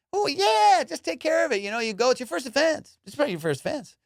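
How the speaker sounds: high, sing-song mock reassurance easing down; soothing cop impression. Cop smoothing over a ticket, mock-soothing voice. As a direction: play the officer who makes it sound like nothing. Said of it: "they're talking like".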